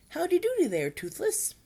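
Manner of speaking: high, loud squawky greeting; hammed-up Dragonese accent, dropping at the end; attempted Dragonese. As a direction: shriek a greeting in made-up dragon talk. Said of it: "what he hoped was a good accent in Dragonese".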